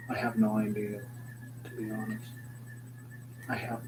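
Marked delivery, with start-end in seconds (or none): 1.6-2.2 sudden unvoiced whisper; whispered aside. Real, not acted. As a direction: drop to a whisper for the confession. Aside whispered mid-sentence.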